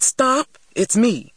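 insistent, alarmed plea; urgent calling out. A narrator's reading. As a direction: get through to a panicking child. Grandmother stops struggling child.

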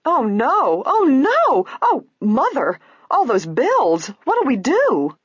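high, loud, panicked wail; frantic, high-pitched lament; shrieking. A narrator's reading. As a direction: shriek it in despair. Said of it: "Isabel gave a shriek".

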